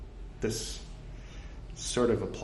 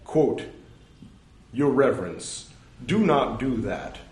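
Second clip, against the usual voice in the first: slightly louder, careful recital voice; scripture reading; 7 semitones higher, 7 dB louder, slower than usual. Acted. Reading a monastic rule aloud to his audience, measured recital. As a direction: read the old text out with measured weight.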